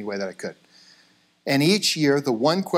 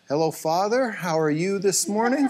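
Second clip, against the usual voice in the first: mock reverent politeness; 4 semitones higher than usual. Parents act overly polite to pastor.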